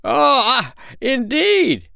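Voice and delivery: very high, piping little bird voice; high-pitched storybook bird; little sandpiper. A narrator's reading. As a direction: squeak it out as a tiny polite sandpiper.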